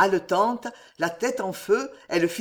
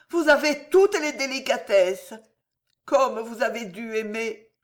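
grateful mistress; 4 semitones higher than usual. Acted. Marie's praise of Jeanne.

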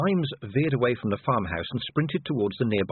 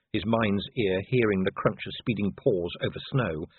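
usual speaking voice

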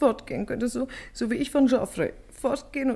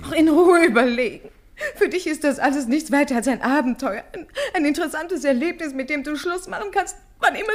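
bitter laugh; 2 semitones higher, 4 dB louder than usual. Acted. Bitter quarrel with her lover.

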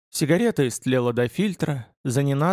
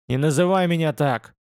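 a lightly voiced angry roar; mild mock roar; 2 semitones higher than usual. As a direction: throw it back at him, hurt and furious. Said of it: "взревел Шеннон".

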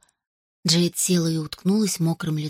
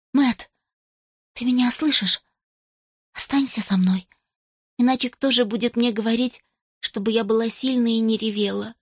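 put-on pleading girl voice; 4 semitones higher than usual. A narrator's reading. Jade pleads with Matt.

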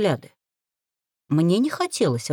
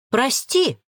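higher, mock-apologetic exclamation; exclaimed sorry; 6 semitones higher than usual. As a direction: cry out a fake apology. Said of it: "воскликнула я". (притворно воскликнуть)

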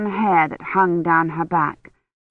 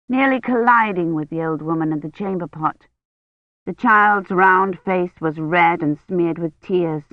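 ordinary delivery

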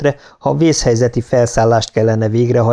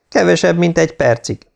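higher, with only a touch of choking up; slightly faltering voice; 7 semitones higher than usual. A narrator's reading. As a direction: answer as if mildly choked up. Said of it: "felelte Beck elcsukló hangon". (enyhén elcsukló, magasabb hang)

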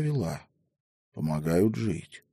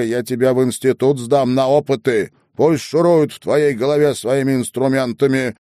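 loud, higher shouting tirade; furious threats; 6 semitones higher, 6 dB louder than usual. Acted. Headwoman threatens to send grandmother away, furious shouting. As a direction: rage and threaten her.

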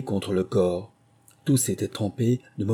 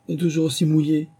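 sadly; 7 semitones higher than usual. A narrator's reading. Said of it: "dit Alice tristement".

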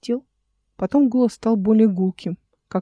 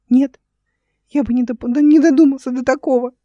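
put-on high, piteous little boy voice; plaintive, high-pitched child; dying squeak; 5 semitones higher, 5 dB louder than usual. A narrator's reading. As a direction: squeak weakly as if at your last gasp. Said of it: "умирающим голоском пищал Рушала".

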